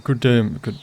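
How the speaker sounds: a touch posh, clipped-off good day; posh greeting. Shown as a demonstration. Player testing a greeting, too posh. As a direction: try a posh lord's greeting. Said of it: "no, that's too posh".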